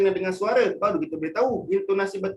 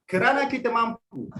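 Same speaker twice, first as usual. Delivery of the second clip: fast phrasing; 5 semitones higher than usual. Shown as a demonstration. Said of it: "yang bawah laju".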